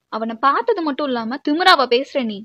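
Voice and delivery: indignant confrontation; angry. Acted. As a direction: take her to task for the insolence. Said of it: "அப்படின்னு நீங்க கோவப்படவும்". (கோபமாக)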